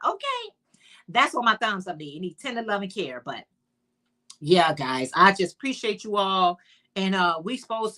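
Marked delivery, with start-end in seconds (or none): 2.2-3.2 tender, loving care rattled off fast and soft; quick recap. Shown as a demonstration. To her chat, a fast soft recap of tender, loving care. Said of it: "needs some love and some care".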